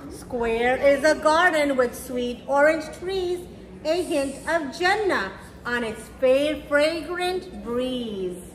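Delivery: gentle rhyming storybook read; reading to children. A narrator's reading. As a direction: read it slowly to little kids, savouring each rhyme. Reads picture book to children.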